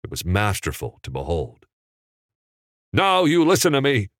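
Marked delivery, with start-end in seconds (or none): 2.9-4.1 louder, higher, urgent command; fervent. A narrator's reading. George turns on Mary fervently, louder and higher. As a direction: grab her attention with heat. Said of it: "Jimmy said fervently".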